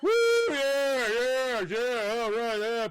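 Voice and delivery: high, loud party whoops; partying dad. Acted. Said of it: "mixed up her dad partying".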